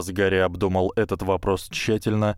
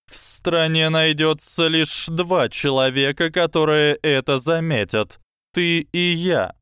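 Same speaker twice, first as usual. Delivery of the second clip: high, slow knowing snake voice; slow hypnotic serpent hiss; 9 semitones higher, 4 dB louder than usual. Acted. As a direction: hiss it as a shared secret. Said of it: "прошипела змея".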